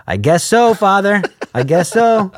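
sighing mock reluctance; reluctant yes. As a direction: give in unwillingly to the priest. Reluctant reply to pastor.

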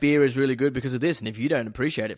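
mildly preachy, mock lecturing; preachy beer snob. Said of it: "getting all preachy about it and being like".

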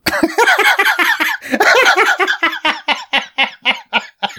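long high-pitched laughing fit. Real, not acted. Remembering his dad calling the Doctor Who costume makers, laughing high. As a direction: break into a high squealing laugh.

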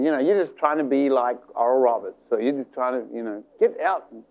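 lightly voiced accusing little voice. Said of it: "a little voice going".

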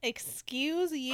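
indignant. Real, not acted. Outraged reaction to the book.

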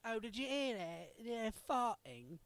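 put-on British accent, drawing out the last word; mock British accent. Imagining British farters, in a mock British accent. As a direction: imitate Britons remarking on it, slowing at the end. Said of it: "They're all gonna be like".

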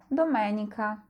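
Domenica said do-MEH-ni-ka, stress on the second syllable; Italian pronunciation. Shown as a demonstration. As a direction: clear teacher model of Domenica. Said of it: "Staraj się powtarzać po mnie".

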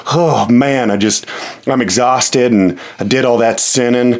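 a hint of a Southern accent, tired churchgoer; lightly voiced Southern Christian. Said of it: "my Christian always has a Southern accent".

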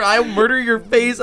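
Sam threatening. Retold or imitated. Boss told no by employee, lightly caricatured slow threat. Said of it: "your impression of him".

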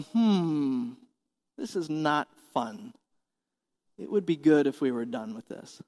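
soft, restrained passenger grumble; understated unease. Acted. Passengers looking around in turbulence, quietly uneasy. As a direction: say it softly, as if privately uneasy.

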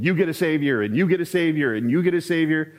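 lightly voiced Oprah handing out gifts; Oprah giveaway. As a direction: call it out like a TV giveaway. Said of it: "this is the Oprah Winfrey moment".

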